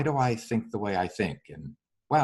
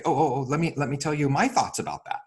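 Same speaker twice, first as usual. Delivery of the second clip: eager mic-stealing; 7 semitones higher than usual. Retold or imitated. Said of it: "most people wanna steal the microphone".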